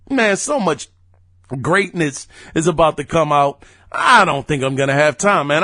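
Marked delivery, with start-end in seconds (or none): 4.0-5.6 talking through hiccups. Real, not acted. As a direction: speak while hiccuping. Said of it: "I'm hiccuping and everything on the podcast".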